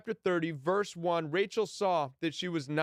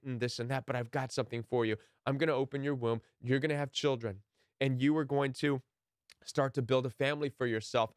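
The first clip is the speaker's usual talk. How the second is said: reassuring; 4 semitones lower than usual. Retold or imitated. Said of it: "the Lord's response to her was".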